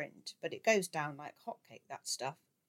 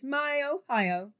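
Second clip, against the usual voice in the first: slow, much higher, drawn-out crow; high treble; 10 semitones higher, 8 dB louder, much slower than usual. A narrator's reading. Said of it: "crowed in high treble".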